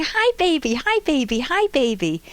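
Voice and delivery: lightly voiced little girl, high at first and then settling; eager toddler voice. Toddler trying to get a sleeping baby's attention, lightly voiced. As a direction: keep calling to the baby, not giving up. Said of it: "And she's going".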